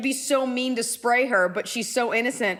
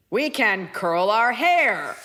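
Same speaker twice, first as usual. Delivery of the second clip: slow mock robot; imitated robot, deliberately slow; girl robot; 3 dB louder, much slower than usual. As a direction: draw each word out like a robot. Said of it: "it's like a girl robot".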